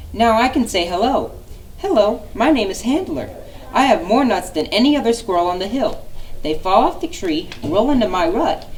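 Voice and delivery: lightly voiced high chatty squirrel. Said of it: "The squirrel could talk really fast".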